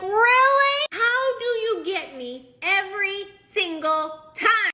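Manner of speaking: loud, high, drawn-out outburst; mock exasperation. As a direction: wail it at him, hammering each word slowly. Retold exasperation at husband's prank.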